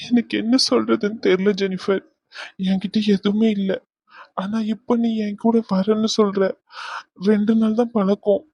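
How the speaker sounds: tearful. Acted. Poor man doubting the woman who loves him, tearful. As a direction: plead helplessly through held-back tears. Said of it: "அழுகாத".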